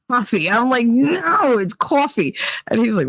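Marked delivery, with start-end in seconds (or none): 0.1-0.5 "Coffee" with open AH, "KAH-fee"; son's no-W coffee. Retold or imitated. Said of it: "there's no W in coffee". 0.9-2.3 emphatic higher "No", then "coffee" as "CAW-fee"; Jersey coffee. Retold or imitated. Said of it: "there's no W in coffee".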